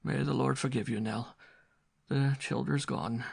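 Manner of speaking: high, wailing, frightened Irish mother; despairing mother. A narrator's reading. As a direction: lament the lost children.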